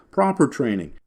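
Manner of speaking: "proper" hit hard, training falling after; stress on proper. Shown as a demonstration. Teacher insisting training be proper, stress on "proper". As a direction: lean on "proper" to underline it. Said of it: "they always forget this word proper".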